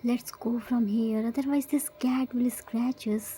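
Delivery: whisper. Acted. Arthur whispering to his friends while sneaking, soft whisper. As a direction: breathe it so the cat won't hear. Sneaking past, hushed aside.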